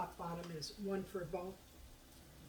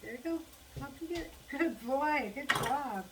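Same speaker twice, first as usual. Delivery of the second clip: high, loud pet talk; praising a pet; 7 semitones higher, 8 dB louder than usual. Real, not acted. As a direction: cheer the dog on, pitched way up.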